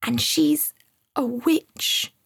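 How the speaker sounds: high, halting voice with a touch of fear; mildly spooked, drawn-out reveal; hushed dread. A narrator's reading. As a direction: pause before naming the scary thing. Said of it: "whispered to Sam in a hushed voice".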